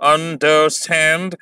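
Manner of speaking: अंडरस्टैंड with the weight on स्टैंड; अंडरस्टैंड with a falling stress on स्टैंड; stress on the last syllable. Shown as a demonstration. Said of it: "इस word में तीन syllables हैं".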